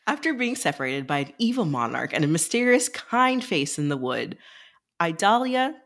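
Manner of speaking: smooth announcer-style reading; flight attendant voice. Acted. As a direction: read it like cabin announcements. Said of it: "you had a very flight attendant voice".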